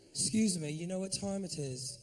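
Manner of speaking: put-on English accent, casual question. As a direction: ask politely as a fake Englishman. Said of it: "I'll use that shit".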